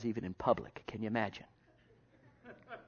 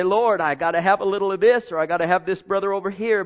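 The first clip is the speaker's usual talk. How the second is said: mock pleading; 6 semitones higher, 8 dB louder than usual. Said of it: "You're gonna say".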